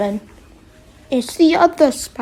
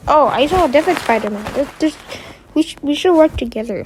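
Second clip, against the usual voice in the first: fast, eager rush of words; excited; 4 semitones higher, 3 dB louder, faster than usual. Retold or imitated. Villains eagerly tell each other to team up, fast. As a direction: blurt it out eagerly, tumbling fast. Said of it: "And they're like".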